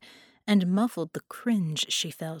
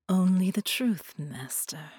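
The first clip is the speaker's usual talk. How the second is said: entranced. Acted. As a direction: give in completely, trailing to breath. Carolina entranced reply.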